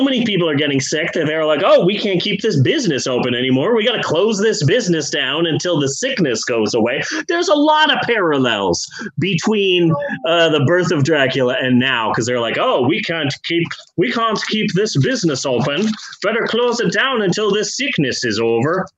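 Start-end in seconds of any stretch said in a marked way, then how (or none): 1.6-7.0 bad Irish accent. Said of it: "that's not a good Irish accent". 12.6-18.9 bad Irish accent. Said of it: "that's not a good Irish accent".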